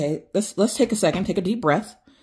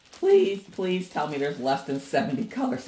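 pleading; 5 semitones lower, 5 dB quieter than usual. Real, not acted. Pleading about color count.

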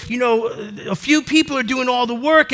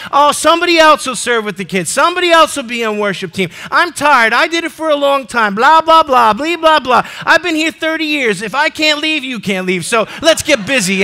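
lampoon a worn-out volunteer griping; whiny excuses; 2 semitones higher, 3 dB louder than usual. Retold or imitated. Preacher mocks members who quit serving, in a whiny, griping voice.

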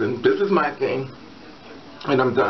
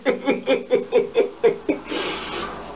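high breathless giggle fit; helpless laughing; 6 semitones higher than usual. Real, not acted. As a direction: laugh helplessly until winded. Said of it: "I'm not gonna stop laughing".

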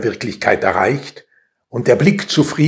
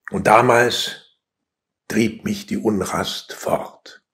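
poem reading that gradually subsides; poetry recitation. Acted. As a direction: recite phrase by phrase with pauses.

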